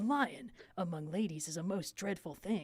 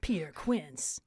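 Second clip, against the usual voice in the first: breathy whisper of a name; 6 semitones lower, much slower than usual. Acted. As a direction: whisper it low. Whispered character line.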